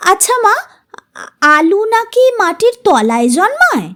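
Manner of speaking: put-on high childish question; a little girl asking, voice lifted; curious child. Child Runa asks mother. (কৌতূহলী শিশুর গলা)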